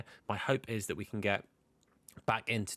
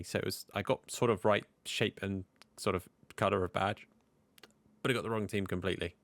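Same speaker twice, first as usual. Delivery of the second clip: hiccups. Real, not acted. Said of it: "I've also got hiccups".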